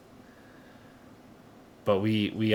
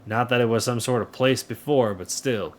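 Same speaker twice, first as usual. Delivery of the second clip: folksy, lightly southern greeting; light southern accent. Acted. Townsperson greets the new farmer, light southern accent. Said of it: "that is my southern accent".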